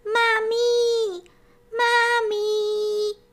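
high, drawn-out calling for mummy. Acted. Lost little hare calling outside for his mother. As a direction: call across the field like a lost little one. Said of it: "a venku volal zase".

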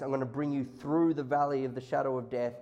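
soft, low reassurance; tender God voice. Acted. God comforting a hurting child, soft and low. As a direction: speak it gently like a comforting father.

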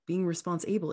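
response-able split, stress on able. Shown as a demonstration. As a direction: say "response-able" as two words, punch able. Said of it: "I emphasize different syllables".

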